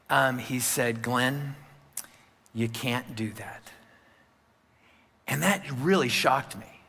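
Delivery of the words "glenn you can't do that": gently but firmly shut the door; very calm. Retold or imitated. Mentor calmly answering a panicked young pastor, soft steady voice. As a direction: lower and softer, steady mentor. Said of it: "in a very calm voice".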